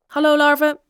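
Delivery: loud, high, monotone shout back; listless call back. A narrator's reading. Bob answering the approaching bullies, listless call. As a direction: call back dutifully, without enthusiasm. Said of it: "riep Bob lusteloos terug".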